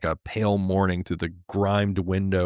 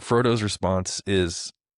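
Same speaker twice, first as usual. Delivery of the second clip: plain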